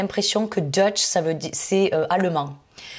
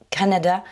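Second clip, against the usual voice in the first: Canada with emphasis on CA; stress on first syllable. Shown as a demonstration. Teacher showing learners the stressed syllable, CA in Canada. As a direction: hit the CA of Canada. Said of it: "j'ai insisté sur la première syllabe".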